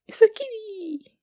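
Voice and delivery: high, loud squeal of delight. Real, not acted. Viewer interrupting herself for a kitty, loud high squeal. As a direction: burst out squealing at the cat.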